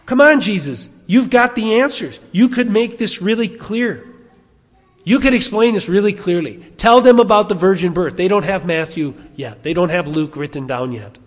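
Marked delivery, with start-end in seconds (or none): 0.0-8.2 higher, louder acted-out coaxing; pleading insistence, pitched up; exasperated urging. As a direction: urge him emphatically to just explain. Acting out urging Jesus to answer.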